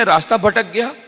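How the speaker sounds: ordinary delivery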